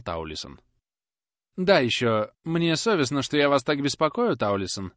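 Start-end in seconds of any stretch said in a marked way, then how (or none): 1.6-4.9 lightly voiced, a touch of hesitation; a hint of an embarrassed spinster apologising; hesitant fussy lady. A narrator's reading. Miss Tox apologising to the footman, a touch hesitant. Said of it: "нерешительно".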